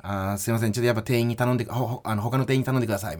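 low, curt, dismissive staff voice; rude clerk. Shown as a demonstration. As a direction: read it like a rude waiter. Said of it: "嫌な店員っぽく俺は正直読んだ".

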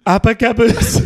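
Trump impression, held straight and high; brash Trump voice, no laughing; Trump accent. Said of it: "That was, that was perfect".

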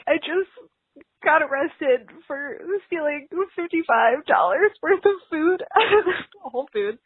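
half laugh, half cry; nervous laugh near tears; laughing through tears. Real, not acted. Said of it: "making me cry right now".

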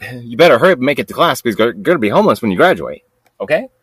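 fast, laughing mock lecture; mocking nag. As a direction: rattle off the nagging advice with a laugh. Mocking the nagging advice.

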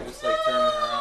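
high yelled mock; shout. Real, not acted. Mocking shout.

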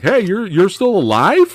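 retold incredulous question, rising high at the end; mock surprise. Host mimics film character finding someone alive, mock surprise. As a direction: imitate someone startled to find a friend living.

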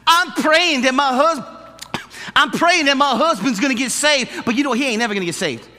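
mock contradictory prayer; imitating the lady. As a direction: pray earnestly then toss off the doubt. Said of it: "She goes".

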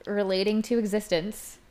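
slushy lisp on the s sounds; reading long words through a lisp. Real, not acted. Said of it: "my lisp is not allowing me to say these things".

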